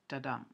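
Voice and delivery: Da-dum, light "Da", weight on "dum"; stress on second syllable. Shown as a demonstration. Lecturer sounds out an iamb for students, "Da-dum" stressed on "dum". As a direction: lean on "dum" after a short "Da". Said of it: "first syllable unstressed and the second stressed".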